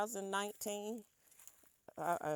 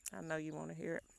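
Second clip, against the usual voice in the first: chewing; faster than usual. Real, not acted. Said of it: "some more crunching in your ear".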